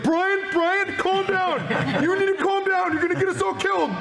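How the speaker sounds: very high, urgent squeaky pleading; hammed-up high-pitched panic; panicked Steve voice. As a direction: plead in a frantic high voice to calm a friend. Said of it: "that Brian is freaking out. Steve is like".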